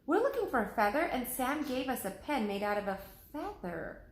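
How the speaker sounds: put-on a young boy puzzled by the pen; Jack's voice.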